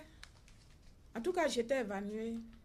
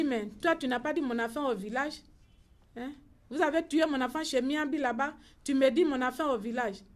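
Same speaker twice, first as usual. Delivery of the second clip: louder, accusing mother's protest; retold angry outburst; 6 dB louder than usual. Grieving mother accusing the relative who lied, angry loud voice. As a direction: throw the accusation back at him, loudly.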